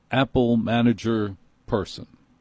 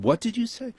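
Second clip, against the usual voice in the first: mock incredulous; 11 semitones higher, 3 dB quieter than usual. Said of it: "I said".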